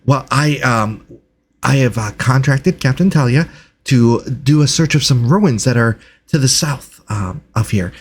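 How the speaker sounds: halting delivery with excited little starts; eager, hesitant researcher. Acted. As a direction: play a flustered scholar greeting strangers. Game master voices Reginald.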